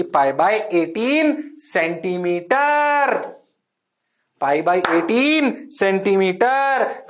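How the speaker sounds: slow, deliberate answer with a falling end; slow dictation. Shown as a demonstration. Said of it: "ये answer आएगा". (धीरे-धीरे उत्तर लिखवाते हुए)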